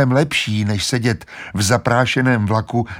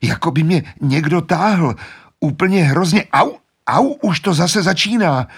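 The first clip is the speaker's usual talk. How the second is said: much higher, louder gasping fear; stammering, frightened; 8 semitones higher, 3 dB louder than usual. Acted. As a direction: gasp it out in fright. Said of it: "zajíkavě potvrzoval Edmund". (Edmund zajíkavě a vyděšeně)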